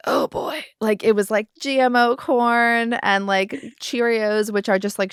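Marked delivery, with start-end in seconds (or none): 0.1-0.6 put-on dismayed oh boy. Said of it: "I'm like".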